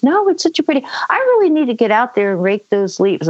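lightly voiced airy mother; a touch of breezy distraction, mimicked; oblivious mom. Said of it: "like everything is fine".

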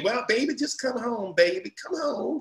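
a hint of a pleading mother; mom's voice. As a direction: coax him home like a worried mom. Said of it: "My mom called me".

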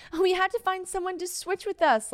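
high-pitched mocking whine; put-on high whiny voice; mock whining. Mock whining of childish request.

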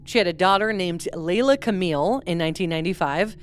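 talking with a numb mouth after dental work; words slurred from the numbness. Real, not acted. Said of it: "I got some dental work done today".

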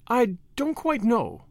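very slow, high, musing tone; meditative. A narrator's reading. Tuppence pondering what the lawyer meant, meditative. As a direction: think it through aloud, drawing the words out. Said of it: "said Tuppence meditatively".

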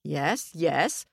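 mildly impatient king; understated royal impatience; hurrying her up. Acted. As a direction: cut in to move her along. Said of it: "trying to speed her up".

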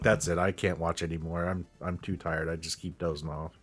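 fading into a drowsy mumble; sleepy and tired. Retold or imitated. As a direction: trail off, half asleep. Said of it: "I'm like".

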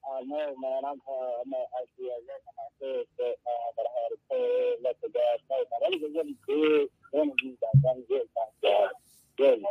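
muffled phone line breaking up; entering a tunnel. Real, not acted. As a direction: caller fading out in a tunnel. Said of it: "it sounds like he's in the tunnel".

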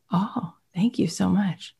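breathy, hushed thank you; grateful whisper. Pretend. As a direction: whisper it like a touched buyer. Buyer's grateful reply, whispered.

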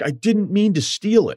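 high, slowed, whiny imitation of tears; mock crying. Caught wife pleads through mock crying, high and slow. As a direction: play her fake sob, drawn out and high. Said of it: "started crying".

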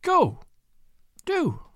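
high, pleading cry of despair; despairing plea. A narrator's reading. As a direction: beg him to leave, at the end of her strength. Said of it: "lifted her thin hands despairingly".

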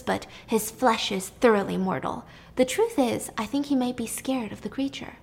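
lightly voiced talking down to her sister; a hint of a sneer, patient and superior; condescending. Pasiphae lecturing Circe, mildly condescending. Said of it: "Pasiphae became condescending".

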